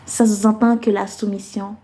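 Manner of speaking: measured phrases set apart by deliberate pauses; spoken-word poem recital. Acted. Poet addressing listeners about submission for women's month, spoken-word recital. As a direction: recite it as slam poetry, building through the lists and settling on each closing line.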